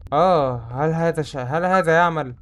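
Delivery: slow, mock-solemn Standard Arabic; mock formal speech. Gamer asking the game if it works, mock formal. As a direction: intone it like a stiff classical announcer.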